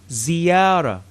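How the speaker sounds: "Ziyara" said slowly with a buzzing Z and rolled ending; Arabic word demo. Shown as a demonstration. Teacher models the Arabic word for visit, carefully. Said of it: "Z as in ziyara".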